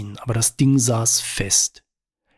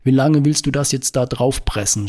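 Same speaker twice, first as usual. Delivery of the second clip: a touch louder, exasperated yell; shouting; 2 semitones higher, 3 dB louder than usual. Acted. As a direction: hurl the question at him, fed up. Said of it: "schrie sie ihn an". (genervt angeschrien)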